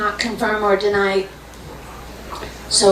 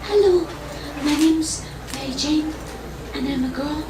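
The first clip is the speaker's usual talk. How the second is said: puppet voice; 5 semitones higher, 4 dB quieter than usual. Acted. Puppet introduces herself.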